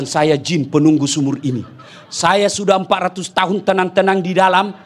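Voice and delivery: grumble, then burst out in exasperation; jinn complaining. Retold or imitated. Well jinn complaining about the nagging wife, rising to a shout.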